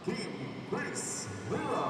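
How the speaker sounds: shouted player intro; hyped shout. Real, not acted. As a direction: belt the name to the crowd. Announcer calls a player's name.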